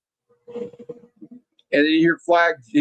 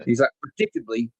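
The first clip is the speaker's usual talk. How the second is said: sneering villain; 4 semitones lower than usual. Retold or imitated. Cobra Commander mocks General Flagg as predictable, lower smug villain voice. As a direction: purr the insults like a bored mastermind.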